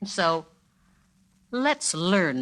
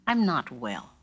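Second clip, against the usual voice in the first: feeling poorly; 5 semitones lower than usual. Shown as a demonstration. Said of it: "you're feeling a little poorly".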